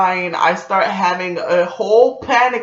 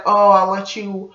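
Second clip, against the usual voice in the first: coaxing suitor. Retold or imitated. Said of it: "he's like".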